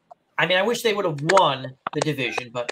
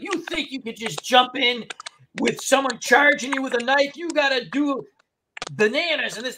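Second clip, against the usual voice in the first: lightly voiced indignant, higher-pitched lecturing; a light impression of a worked-up instructor; John Cleese; 5 semitones higher than usual. Self-defense teacher rebuking his pupil in a skit, mildly indignant impression. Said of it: "he goes like, John Cleese".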